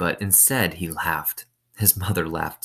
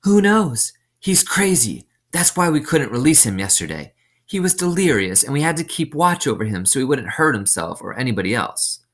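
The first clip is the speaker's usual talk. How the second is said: much higher, louder, dismissive warden; the warden's voice; 7 semitones higher, 4 dB louder than usual. A narrator's reading. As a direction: brush it off as crazy, pitched high.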